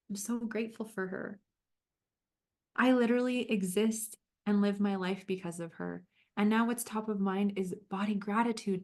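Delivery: gentle, unhurried guiding voice; calm coach leading a visualization; guided visualization. Acted. Leads a visualization.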